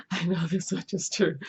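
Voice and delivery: repeating the title with a laugh. Shown as a demonstration. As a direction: chuckle through the title again.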